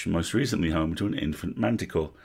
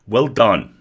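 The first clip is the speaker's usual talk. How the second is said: hearty praise; 5 semitones higher, 10 dB louder than usual. Acted. Elf praising the troll.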